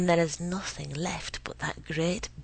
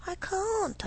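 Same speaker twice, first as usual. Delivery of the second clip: sing-song refusal; 13 semitones higher than usual. A narrator's reading. Wife sweetly refuses pleading husband.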